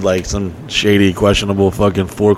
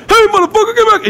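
mock yell; faster than usual. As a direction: holler it from a moving car. Yelling from car at porch.

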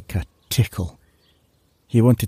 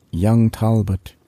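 gentle but forceful; slower than usual. Acted. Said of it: "in a very gentle, yet forceful manner".

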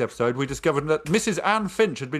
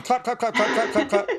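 mock clapping sounds; 8 semitones higher than usual. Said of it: "I'm clapping".

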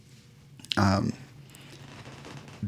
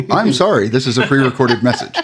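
robotic recorded message; 3 semitones higher, 5 dB louder, faster than usual. Acted. GM repeats message, laughing.

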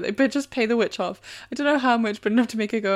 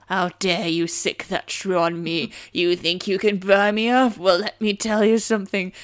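growl; 5 dB louder, slower than usual. Retold or imitated. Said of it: "Drops voice to a growl".

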